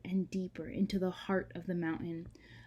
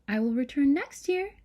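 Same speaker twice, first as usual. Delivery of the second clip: said softly; 6 semitones higher, 7 dB louder than usual. Acted. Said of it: "said Joy softly".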